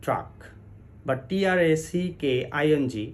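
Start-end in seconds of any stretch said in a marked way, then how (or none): 0.0-0.3 track with an open central a; wrong vowel in track, like truck; track misread as truck. Shown as a demonstration. Teacher quoting common usage, track said as truck. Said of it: "বলা হয়ে থাকে".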